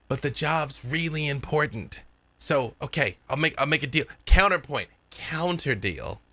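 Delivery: lightly voiced eager dealmaker; a hint of a kid pitching a deal, key words stressed; earnest bargaining kid. Kid offers a counter deal to the party, lightly voiced earnest bargaining.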